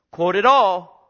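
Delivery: loud preaching command; loud pulpit insistence; forceful command. Real, not acted. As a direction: drive it home hard. Preacher repeats command for emphasis.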